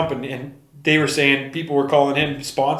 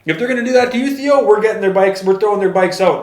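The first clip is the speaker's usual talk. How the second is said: much higher fired-up defiance; retold anger; 6 semitones higher than usual. Dana backing Theo against the sponsor, angry. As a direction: stand up for your guy. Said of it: "He was mad".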